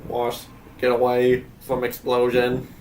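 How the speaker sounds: even robotic monotone. Acted. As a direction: read it like a machine. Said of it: "doing the robot voice".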